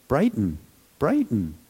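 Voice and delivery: light, encouraging inner cue; little meditator's voice. Shown as a demonstration. Teacher demoing a word against dullness, light meditator's cue. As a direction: nudge yourself awake, gently. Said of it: "I use a little meditator's voice".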